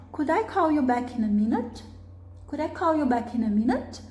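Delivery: courteous question with a rising end; educated, polite model request. Shown as a demonstration. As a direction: ask politely, lifting the end. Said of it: "soando bastante educado".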